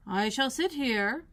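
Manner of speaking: slow, lazy drawl; slow footman. Acted. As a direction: stretch each word idly.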